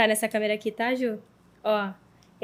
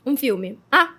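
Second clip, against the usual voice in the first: speaking while chewing; mouth full; 2 semitones higher, 5 dB louder than usual. Real, not acted. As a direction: talk through a mouthful. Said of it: "eu vou falar com a boca cheia". (falando de boca cheia)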